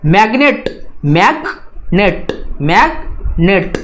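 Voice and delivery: मैग्नेट with मैग stressed, slow and drawn out; slow classroom model of मैग्नेट. Shown as a demonstration. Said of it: "थोड़ा सा highly pronounce करना है".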